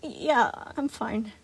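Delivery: slow, wheezy reply; wheezing. Acted. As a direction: wheeze it out weakly. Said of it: "Gregory finally wheezed out".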